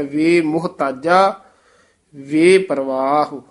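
brief break after each "ਵੇ"; dash after ਵੇ. Shown as a demonstration. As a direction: separate "ਵੇ" from "ਮੁਹਤਾਜਾ" and "ਪਰਵਾਹ". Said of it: "ਤੋਂ dash ਦੇਣੀ ਹੈ".

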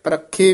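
ਪਰਖੇ with a tight, doubled kh; tightly pressed. Shown as a demonstration. Teacher correcting the word, ਪਰਖੇ said tightly. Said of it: "ਵੀ ਕਸ ਕੇ ਹੀ ਉਚਾਰਨ".

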